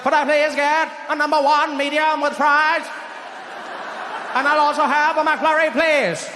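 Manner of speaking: ordering a burger like a speech; JFK ordering fast food. Retold or imitated. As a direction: presidential drawl at the counter. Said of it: "with that voice".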